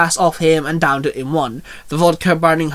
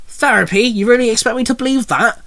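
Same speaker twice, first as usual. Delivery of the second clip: higher, incredulous boss bark; 7 semitones higher than usual. Acted. Boss doubts the employee's therapy excuse, barking. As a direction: throw it back in mild angry disbelief. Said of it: "her boss barked".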